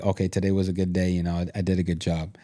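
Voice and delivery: low, quick, soft self-talk; quiet self-reassurance. Retold or imitated. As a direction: murmur it to yourself, satisfied the day is done.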